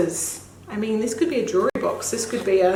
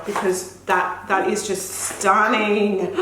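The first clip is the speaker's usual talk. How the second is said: ordinary talk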